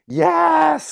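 high, loud elated cheer; crowd losing it. Retold or imitated. Yoga class cheering his confession, wildly excited. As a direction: draw out a whooping yes. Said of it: "losing it".

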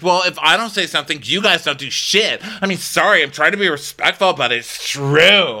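imitating a pushy crew member; mock whiny outburst. Stewardess snapping at the captain, mock whiny.

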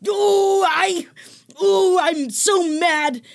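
high, overwhelmed, half-laughing wail; tearful wailing. Real, not acted. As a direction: wail as if tearing up, laughing at yourself. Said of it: "I'm crying right now".

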